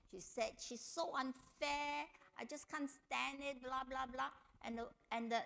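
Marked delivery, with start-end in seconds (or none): 0.6-4.3 close to tears. Retold or imitated. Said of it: "she was close to tears".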